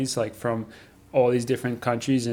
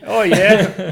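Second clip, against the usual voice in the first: high, loud mock Londoner; hammed-up London accent; 8 semitones higher, 8 dB louder than usual. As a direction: echo it in exaggerated London tones. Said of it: "sound like you're from London".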